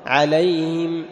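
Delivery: عليهم said "alayim", ه lost; wrong swallowed Ha. Shown as a demonstration. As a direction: drop the Ha in عليهم. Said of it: "ما تقول".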